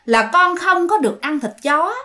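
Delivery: lightly voiced tender ghost mother; gentle ghost mother. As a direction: coax him gently like a loving mother. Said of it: "nói nhẹ nhàng".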